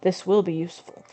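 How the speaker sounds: lightly voiced weary old man; tired grandpa voice. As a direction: read it like a grandpa who's over it. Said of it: "this goes along with the whole grandpa thing".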